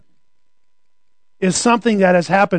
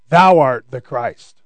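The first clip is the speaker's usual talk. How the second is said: lower, slow, reverent "Thou art the Christ"; solemn confession; 6 semitones lower, slower than usual. Retold or imitated. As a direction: declare it with awe. Peter's confession voiced.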